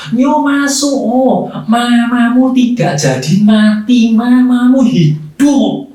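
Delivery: high, drawn-out joyful call from the doctor. Retold or imitated. Doctor calling the young man in, drawn-out joyful call. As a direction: call the good news through the door slowly. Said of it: "ada teriakan dokter".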